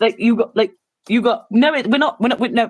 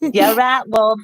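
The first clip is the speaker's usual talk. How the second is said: hammed-up local English accent; mock Boston, England accent; slower than usual. Showing how UK Boston sounds, in a mock English local accent. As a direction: put on an English small-town accent. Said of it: "It was more like".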